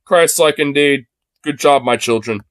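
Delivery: lightly voiced, slow, pompous savior giving approval; a hint of a benevolent lord praising his flock; playful sendup of a self-satisfied god; mock Jesus. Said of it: "Christ is gonna look at you today and be like".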